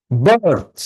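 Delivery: "বার্থ" as one isolated, drawn-out beat; stressed syllable. Shown as a demonstration. Teacher showing students where to clap, stressing "বার্থ". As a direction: lean on "বার্থ" alone. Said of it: "the stressed syllables".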